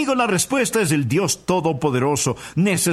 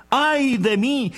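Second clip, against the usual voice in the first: lamenting cry; 8 semitones higher, slower than usual. Acted. Isaiah's cry of woe quoted.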